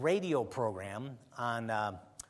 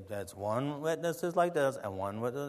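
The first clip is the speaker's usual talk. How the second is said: imitating Camping; 3 semitones lower, 6 dB quieter than usual. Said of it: "he would talk like".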